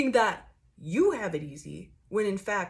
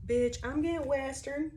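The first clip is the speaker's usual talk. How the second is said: higher, half-laughing exclamation; amused disbelief; 6 semitones higher than usual. Real, not acted. Reading her tarot cards, amused disbelief. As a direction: blurt it out like a punchline.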